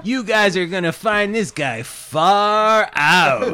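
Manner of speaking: slow, drawn-out groovy emcee; groovy eighties MC. Acted. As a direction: hype up the crowd like a seventies host. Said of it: "Think s".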